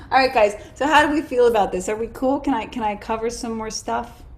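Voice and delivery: talking while chewing ginger. Real, not acted. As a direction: speak around a piece of ginger. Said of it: "Sorry, I'm chewing on ginger".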